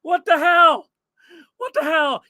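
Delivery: disbelief. Real, not acted. Reacting to messy floor.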